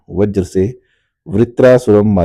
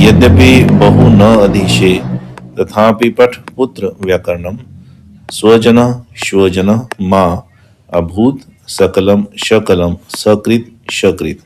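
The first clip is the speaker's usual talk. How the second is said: slow, chanted recitation of a Sanskrit verse. Shown as a demonstration. Teacher chanting the grammar verse over music. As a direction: draw out each word like a recited shloka.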